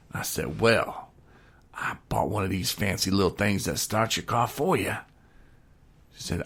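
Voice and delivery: lightly put-on country storytelling accent; hillbilly storyteller. Telling his wing-night story to the listener, mild hillbilly accent. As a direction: spin the yarn with a hint of hillbilly drama. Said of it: "angry hillbilly".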